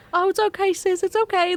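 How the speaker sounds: high-pitched put-on country dad; reassuring dad with an exaggerated country twang; dad's country accent. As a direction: comfort a child in a mock country accent. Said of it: "Does your dad have a country accent?".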